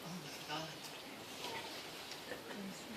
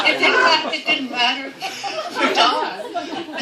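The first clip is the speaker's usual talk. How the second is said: words pushed out through laughter, slow and stretched; laughing through words; 8 semitones higher, 11 dB louder, much slower than usual. Real, not acted. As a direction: laugh as you get the line out. Laughing fondly about Don.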